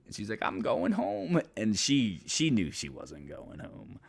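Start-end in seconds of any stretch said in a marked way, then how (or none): 0.4-1.4 high, slow insistent voice; mock firm date. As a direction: she says it but won't mean it.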